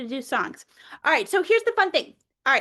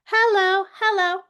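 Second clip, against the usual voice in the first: bright demo greeting; 5 semitones higher, 4 dB louder than usual. Shown as a demonstration. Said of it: "the sign for hello".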